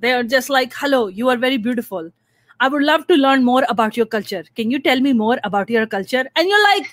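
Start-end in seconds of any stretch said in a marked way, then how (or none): 0.8-6.2 put-on South Asian accent, sing-song flattery; mock South Asian accent. Imitating the guys who slide into her DMs, in a South Asian accent. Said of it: "When you do your accent".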